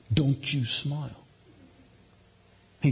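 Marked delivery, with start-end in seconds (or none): 0.1-1.2 slow, deliberate playful warning; mock-stern command. Dad daring his son, slow mock-stern. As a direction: space out a teasing prohibition.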